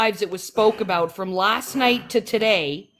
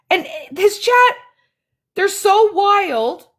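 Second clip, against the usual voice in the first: high, laughing through the words; laughing disbelief; 10 semitones higher than usual. Real, not acted. To the chat about his viewers, laughing high.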